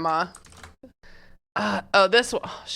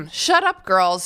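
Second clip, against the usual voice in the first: mom voice; slower than usual. Acted. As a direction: snap it out like a mom. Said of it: "said Mom".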